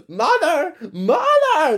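very high calling cry; blizzards screaming. Acted. Blizzards crying out to their witch mother, very high. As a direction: call out shrilly for mother. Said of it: "they all screamed".

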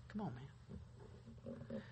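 slow, whispered sigh of disbelief; breathy exasperated aside. Retold or imitated. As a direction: let it out under the breath. Exasperated aside after the quote.

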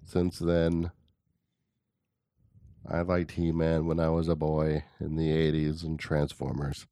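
measured, low-key solemn narrator; lightly voiced documentary storyteller with long pauses; Morgan Freeman voice. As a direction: recount it gravely, pausing between phrases. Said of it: "Are you doing, like, Morgan Freeman voice?".

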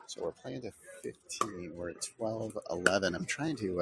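hushed golf commentary; golf announcer hush. Real, not acted. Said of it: "I'm sounding like a golf announcer 'cause I'm trying to whisper".

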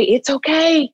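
tender reassurance; soothing comfort. Shown as a demonstration. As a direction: say "It's okay." like soothing a puppy. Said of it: "but to just say".

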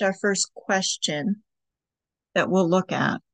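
unhurried guiding voice with long pauses; guided meditation. Acted. Host guiding listeners through breathing and writing prompts, guided meditation. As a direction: lead them gently through each step, leaving space.

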